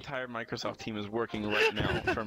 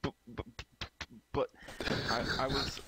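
stammering and trailing off; fake stutter. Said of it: "fake stutter".

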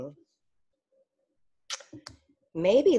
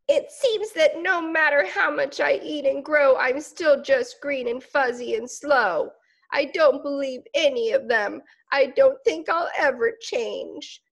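higher, frustrated caterpillar voice; discouraged caterpillar; 6 semitones higher, 3 dB louder than usual. Acted. Caterpillar complaining to herself, higher and frustrated. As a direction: vent that nothing changes.

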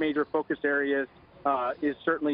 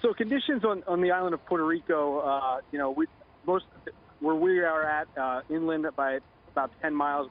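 phone line; 6 semitones lower, 3 dB quieter than usual. Real, not acted. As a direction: voice over a telephone line. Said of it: "Joining us now on the phone".

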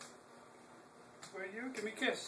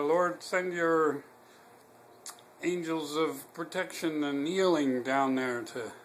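slow, hushed prayer for a sick friend; 3 semitones lower, slower than usual. Acted. Man praying for sick Doc, slow and hushed.

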